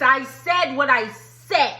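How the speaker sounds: lightly voiced Nene Leakes clapback. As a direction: lean in with a touch of Nene. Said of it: "She gave a little Nene Leakes".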